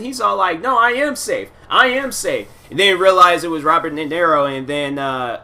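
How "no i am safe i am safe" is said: snapping back. Retold or imitated. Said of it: "Wesley Snipes is snapping".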